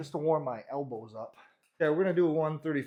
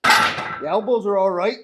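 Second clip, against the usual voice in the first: carrying heavy load; 4 semitones higher, 11 dB louder, slower than usual. Real, not acted. Mid-set under heavy bar.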